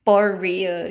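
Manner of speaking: FOR said as "por"; Filipino P for F. Shown as a demonstration. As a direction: turn the F of "For" into a P, amused. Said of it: "the F and the P".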